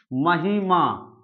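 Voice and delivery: महिमा stretched very slowly, syllable by syllable; teacher slowly spelling out महिमा; slowly drawn out example. Shown as a demonstration. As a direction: draw out महिमा slowly so students catch each sound. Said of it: "teacher drawing out an example word".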